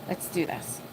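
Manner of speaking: whispered, psyching herself up; nervous whisper. Real, not acted. Streamer nervously whispering before clicking send. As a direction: breathe it out under her breath.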